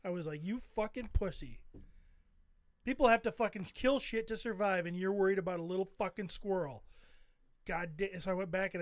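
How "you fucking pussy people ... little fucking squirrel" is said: forceful mock scolding of oneself; mildly heated, emphatic retelling; retold self-anger. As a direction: berate yourself with a touch of anger. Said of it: "I was so pissed at myself".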